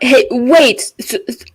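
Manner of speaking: lightly yelled, stumbling apology; mild in-character yell. Acted. Adventurer apologizing to the ghosts, mildly yelled out. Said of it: "and I just yell out".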